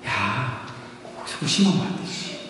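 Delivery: soft, breathy whispered correction; gentle whisper. Acted. Jesus gently whispering to Peter in the water, soft and close. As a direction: whisper it so only Peter hears. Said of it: "아주 속삭이면서 말씀하셨을 것 같아요".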